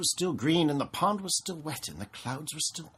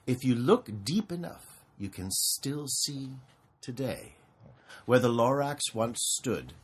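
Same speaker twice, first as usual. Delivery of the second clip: put-on reading to children. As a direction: read it like a bedtime story.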